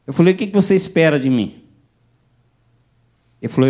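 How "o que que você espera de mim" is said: loud, higher challenge; sharp demand. Retold or imitated. Pastor challenging the desperate man, loud demand. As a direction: demand an answer.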